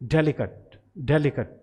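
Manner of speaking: डेलिकेट with a short uh in the last syllable, ending "kut"; delicate pronunciation. Shown as a demonstration. Teacher modelling for students: डेलिकेट with an ending like kut. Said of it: "इसे बोला जाता है डेलिकेट".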